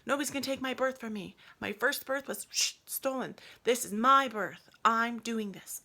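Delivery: determined frustrated outburst; frustrated pleading. Retold or imitated. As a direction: demand that the baby come now. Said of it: "I was like".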